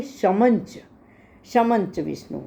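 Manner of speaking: शमंच with the dot sounded as न, joined to च. Shown as a demonstration. Teacher showing शमं च joined as शमंच. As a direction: say शमंच, न before च, one word. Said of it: "म की आवाज़ की बजाय न की आवाज़".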